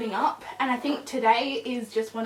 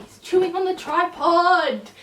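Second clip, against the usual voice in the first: laughing while calling it out, slowed; amused exasperation; 6 semitones higher, 6 dB louder than usual. Real, not acted. Owner laughing as puppy chews the tripod.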